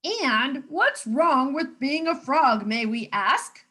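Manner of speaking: slow, offended challenge; exclaimed indignantly. Acted. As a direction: demand an answer, affronted. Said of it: "exclaimed the frogs".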